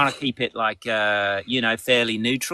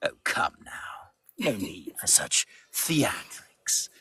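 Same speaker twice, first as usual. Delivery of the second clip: Rookwood voice; 6 semitones lower, 7 dB quieter than usual. Shown as a demonstration. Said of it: "Daddy Rookwood".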